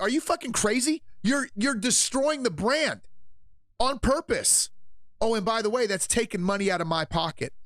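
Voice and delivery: mock angry shareholder. Streamer voicing Target stockholders, high mock outrage. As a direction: play the angry investor. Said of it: "Target, for example, are like".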